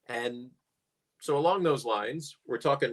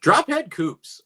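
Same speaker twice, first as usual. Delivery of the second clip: "Drop head coupes" drawn out slow, higher and louder, mock British; hint of British accent; 11 semitones higher, 8 dB louder, slower than usual. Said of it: "you almost have to say it with a British accent".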